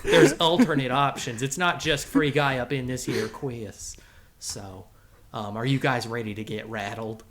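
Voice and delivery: put-on cowboy character accent. The Rattler presenting his Halloween game to the boys, cowboy accent.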